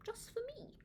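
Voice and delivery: a secret whisper to herself. Acted. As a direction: confide it in a whisper. Private pleasure, echoed softly.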